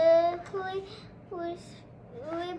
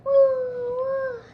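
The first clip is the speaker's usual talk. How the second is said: high, loud woo woo bark; dog barking in the story; 8 semitones higher, 8 dB louder than usual. Acted.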